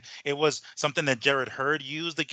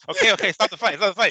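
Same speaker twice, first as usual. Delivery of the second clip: louder, higher laughing plea to stop it; laughing crowd call; 4 semitones higher, 6 dB louder, faster than usual. Retold or imitated. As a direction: laugh while begging them to stop.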